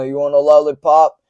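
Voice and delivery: lightly voiced old man; a hint of an old man asking. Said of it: "I do the old man voice".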